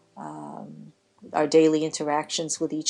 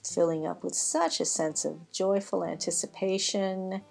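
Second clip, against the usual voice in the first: guided breathing meditation. Acted. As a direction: ease them gently through each breath, stretching the words. Leads a breathing relaxation.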